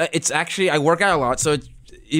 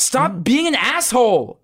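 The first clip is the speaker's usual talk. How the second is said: angry slow shout; 5 semitones higher, slower than usual. Real, not acted. Friend keeps taunting him.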